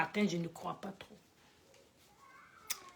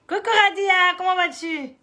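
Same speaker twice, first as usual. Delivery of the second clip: cheery greeting; 8 semitones higher, 5 dB louder than usual. Real, not acted. Greeting a viewer in chat.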